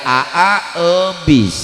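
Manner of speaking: put-on wife's cadel babytalk eubis; says w for r. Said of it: "ngomongna teh cadel".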